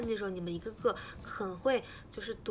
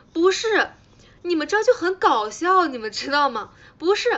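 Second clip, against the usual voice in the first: excited; 6 semitones higher, 11 dB louder than usual. Real, not acted. Excitedly telling fans a funny story.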